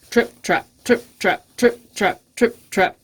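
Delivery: fuller-voiced, measured trip-trap; big hoof steps. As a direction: step out the words as a big goat. Big goat's heavier hooves.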